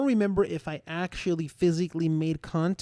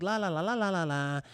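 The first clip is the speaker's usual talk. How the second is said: pretend nothing happened; 5 dB quieter than usual. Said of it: "just let's talk".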